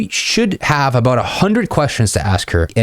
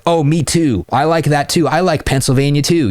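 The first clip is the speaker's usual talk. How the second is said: higher, lightly needy me-too; mock eager agreeing; 7 semitones higher than usual. Shown as a demonstration. Coach mocks the needy guy for students, mild eager agreeing. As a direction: fawn over every match she mentions. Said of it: "You don't wanna say that shit".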